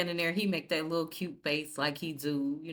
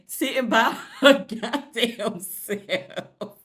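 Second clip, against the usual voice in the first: laughing mock; 5 semitones higher, 8 dB louder, much slower than usual. Real, not acted. Mocking a character left alone.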